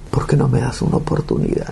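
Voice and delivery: strained plea, no added volume; imploring question, voice held back; retold pleading. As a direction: re-enact begging God for a chance. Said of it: "le pedí a Dios".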